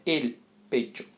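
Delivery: "el pecho" with a true L and a tch sound; Spanish pronunciation model. Shown as a demonstration. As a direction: model "el pecho" with the tongue touching up for L. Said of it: "a pronúncia correta aqui é". ("el pecho" com L pronunciado e CH como "tch")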